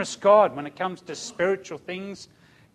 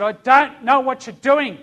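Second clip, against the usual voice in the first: loud, raised-pitch retold outcry; screaming at God; 7 semitones higher, 7 dB louder than usual. Grieving father confronting God in the backyard, shouted. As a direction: cry it out in protest. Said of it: "And I screamed at him".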